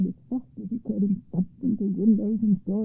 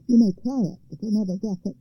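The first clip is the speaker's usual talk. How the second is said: troll crying out. Acted. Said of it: "cried the troll".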